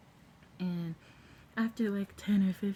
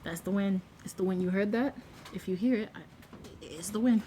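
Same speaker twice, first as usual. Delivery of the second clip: louder, pushy it's the wind, over and over; insistent denial; 2 semitones higher, 4 dB louder than usual. Pretend. Covering up a noise to the viewers, loud insistent joke. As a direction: insist loudly it was only the wind.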